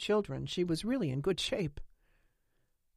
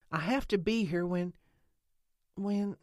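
halting, a long pause before the repeated "when"; trailing away; 3 semitones higher than usual. A narrator's reading. Lena unable to finish explaining, trailing away. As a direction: leave "when" hanging unfinished. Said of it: "her voice trailed away".

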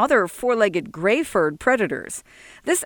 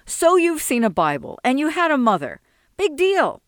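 rising higher into a scornful "Big deal"; sullen irritation; 7 semitones higher than usual. Acted. Sol to Jesse, irritated, climbing higher in pitch. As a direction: sneer at his boasts. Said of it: "sullen irritation".

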